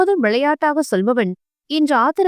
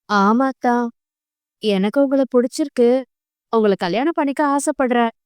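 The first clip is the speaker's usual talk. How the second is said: dreamy confession. Acted. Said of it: "கண்களை விரித்து கனவுகளுடன்".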